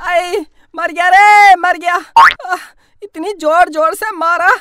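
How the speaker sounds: slow wailing sobs after a beating; hammed-up crying. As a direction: cry over how hard she hit. (पिटाई के बाद नाटकीय रोना)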